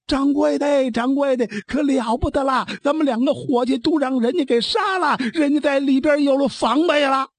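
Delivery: panicked waiter calling out for the boss; waiter shouting. Acted. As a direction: yell the bad news to the innkeeper. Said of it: "就喊开了".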